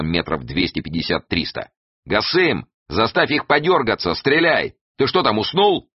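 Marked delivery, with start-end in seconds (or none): 2.0-5.9 high, shouted command; calling out. A narrator's reading. Эраст Петрович orders Гасым to fire, calling out. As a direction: call out high to the gunman.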